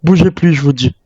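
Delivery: armed survivor threatening to shoot a stranger; angry command. Acted. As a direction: warn him you'll shoot.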